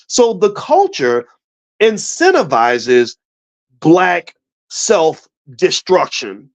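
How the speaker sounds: each word spaced out and weighed; slow emphatic point. Real, not acted. Speaker telling the audience what the culture does, slow and weighty. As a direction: land it slowly, word by word. Driving home the key point.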